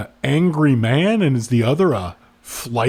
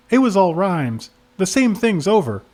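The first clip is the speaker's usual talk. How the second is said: slightly higher witness voice; a hint of a character, pitched up; lightly voiced witness; 4 semitones higher than usual. Woman answering the cop's questions, lightly voiced higher. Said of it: "The cop is asking the couple".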